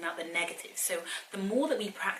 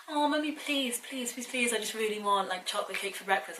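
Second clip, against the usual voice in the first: put-on begging child; 4 semitones higher than usual. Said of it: "She was like".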